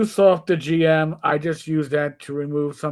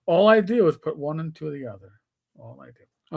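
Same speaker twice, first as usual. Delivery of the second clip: bad Hispanic accent. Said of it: "I'm doing a bad Hispanic accent".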